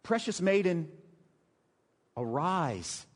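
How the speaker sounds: gentle, spaced-out endearment; affectionate. Acted. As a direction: call her tenderly to get up. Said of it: "it's an affectionate term".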